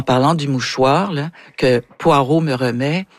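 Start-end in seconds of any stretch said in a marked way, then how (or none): none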